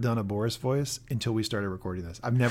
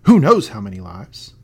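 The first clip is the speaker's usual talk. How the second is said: raised, indignant challenge to a superior; quoted angry outburst; 4 semitones higher, 7 dB louder than usual. Retold or imitated. Scientist challenging the party man, rising anger. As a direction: demand answers louder, incredulous.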